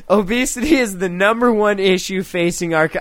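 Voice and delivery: holding back laughter mid-sentence; fighting a grin while reading; trying not to laugh. Real, not acted. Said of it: "I can't even say that with a straight face".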